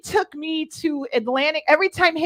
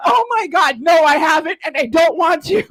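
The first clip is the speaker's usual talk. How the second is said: embarrassed protest; 3 semitones higher than usual. Retold or imitated. Embarrassed refusal.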